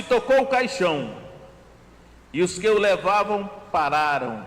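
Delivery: slow, deliberate Bible reading; scripture reading. Acted. Preacher reading Luke seven to the congregation, slow and deliberate. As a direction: read the passage slowly, weighing each phrase. Reads Luke 7 passage aloud.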